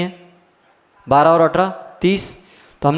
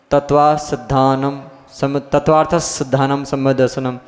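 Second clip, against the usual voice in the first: wrong sutra reading. Shown as a demonstration. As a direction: chant the sutra stretched out like verse. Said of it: "सूत्रों को ऐसे नहीं पढ़ा जाता".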